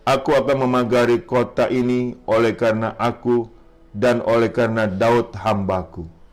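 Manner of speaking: measured, solemn reading aloud; scripture reading. Acted. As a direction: read it out as God's message to the king.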